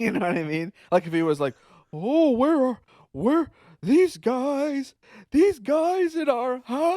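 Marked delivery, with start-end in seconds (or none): 1.9-7.0 eerie ghostly voice, very high-pitched and very slow. Showing how the monster might have sounded with a different voice: ghosty voice. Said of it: "I was trying to do a ghosty kind of voice".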